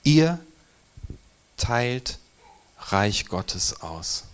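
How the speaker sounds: solemn emphasis on Ihr, words spaced apart; emphatic, slow. Acted. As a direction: lean hard on Ihr and let the rest fall slowly. Key phrase, set off by pauses.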